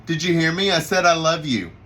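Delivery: put-on dad pressing his silent kid; insistent repeat. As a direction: raise your voice a bit to be heard. Dad repeats himself to silent son.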